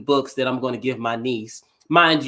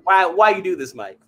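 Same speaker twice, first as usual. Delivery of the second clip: mock whining; 9 semitones higher than usual. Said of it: "'Cause I'd be like".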